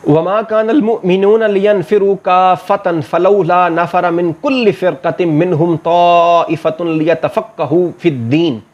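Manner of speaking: slow, measured Arabic recitation with long-held vowels; Quran recitation. Acted. Teacher recites a verse before translating it, measured recitation. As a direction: recite the verse slowly, drawing out the long syllables.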